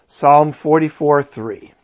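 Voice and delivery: slurred, sleepy reading of the reference; words slurring from tiredness; tired slurring. Real, not acted. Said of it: "I'm slurring my w-, words a little bit".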